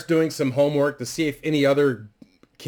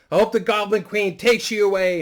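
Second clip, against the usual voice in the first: put-on high, louder kid voice; bratty grandson; 8 semitones higher, 4 dB louder than usual. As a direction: yell it through the door like a sulking brat. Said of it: "he storms off in his room".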